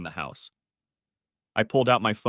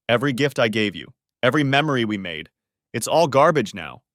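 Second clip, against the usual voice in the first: louder, building bitter rant; 5 dB louder than usual. Acted. Husband ranting at his wife over her gifts, bitter. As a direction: rise to a furious finish.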